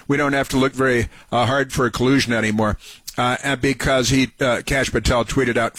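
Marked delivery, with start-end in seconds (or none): 0.1-2.8 rattled off fast in scorn; host sneering at a critic's tweet, fast mocking; mocking quote. Fast dismissive parody. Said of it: "some idiot who allegedly used to work for Trump".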